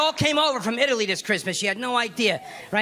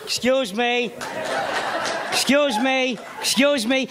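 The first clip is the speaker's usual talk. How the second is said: tough Italian father; slower than usual. Retold or imitated. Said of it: "He said everything three times".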